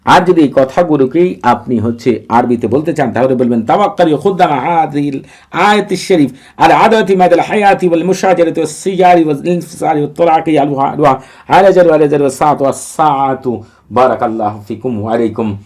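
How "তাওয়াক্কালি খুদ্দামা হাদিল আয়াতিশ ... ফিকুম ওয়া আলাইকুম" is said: raised recitation voice, settling at the end; Arabic invocation. Shown as a demonstration. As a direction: recite it like a formal incantation.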